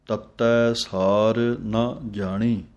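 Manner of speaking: ਤੱਤੈ hit hard, the doubled t held; stress on ਤੱਤੈ. Shown as a demonstration. Teacher shows learners the doubled t in ਤੱਤੈ. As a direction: press the addak in ਤੱਤੈ, slowly. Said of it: "ਜ਼ੋਰ ਦੇ ਕੇ ਬੋਲਣਾ ਹੈ ਤੱਤੇ ਉੱਤੇ".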